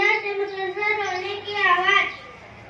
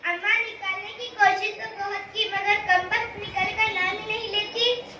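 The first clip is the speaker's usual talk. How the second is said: tearful voice; 5 dB quieter than usual. Acted. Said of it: "नसीबुन रोनी आवाज में".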